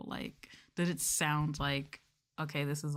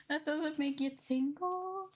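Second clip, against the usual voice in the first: mock surprise; 10 semitones higher, slower than usual. Mock-surprised high plea.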